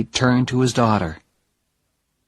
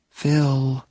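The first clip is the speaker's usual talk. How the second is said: calm her father down gently; gentle Jenny; 4 semitones higher than usual. Acted. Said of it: "said Jenny gently".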